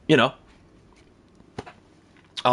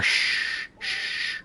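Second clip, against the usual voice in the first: whispering over a crib; 8 dB quieter than usual. Pretend. Shushing again, unvoiced.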